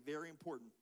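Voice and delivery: low, soft call-and-repeat; hushed emphasis. Shown as a demonstration. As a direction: drop the voice to make it important. Softly leads audience in repeating.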